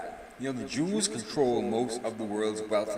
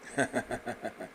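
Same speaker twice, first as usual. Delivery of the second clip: short laugh; 7 dB quieter than usual. Real, not acted. Laughs at own remark.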